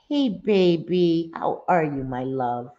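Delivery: slow, cooing greeting to a beloved pet; pet talk. Real, not acted. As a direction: croon it to a pet in your lap. Greeting her pet on stream.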